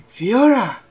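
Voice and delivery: name shouted high and loud; transformation shout. Acted. Izuku calls on his Fiora form, a high, loud shout. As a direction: call it out like a summons.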